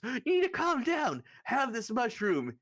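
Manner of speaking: soothing offer. Acted. Torvik offers James a mushroom, loud and high. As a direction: push the mushroom at him. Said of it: "So Torvik goes".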